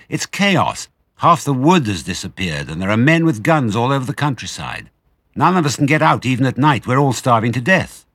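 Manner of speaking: high, loud anxious rush; agitated badger. Badger telling Fox about the guns, high agitated. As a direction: warn him it's all chaos. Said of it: "Badger said excitedly".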